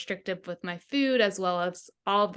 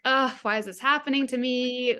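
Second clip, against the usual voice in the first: mock whine, pitched higher; complaining; 4 semitones higher than usual. Podcast guest voicing the victim mentality, complaining in a higher pitch. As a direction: groan it like a self-pitying victim. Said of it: "we get in this complaining mode".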